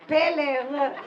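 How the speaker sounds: Peller with a P, laughing; Israeli mispronunciation. Shown as a demonstration. Imitating Israelis mispronouncing her name, laughing. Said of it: "the Israelis call me".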